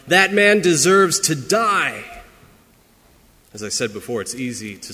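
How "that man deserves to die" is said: higher, louder, slow outraged cry; preacher voicing a furious King David; outraged shout. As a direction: shout the verdict slowly, outraged. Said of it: "he screamed out".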